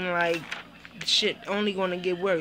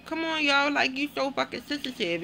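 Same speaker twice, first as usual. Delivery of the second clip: exasperated retort; 6 semitones higher than usual. Retold or imitated. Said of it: "And I'm like".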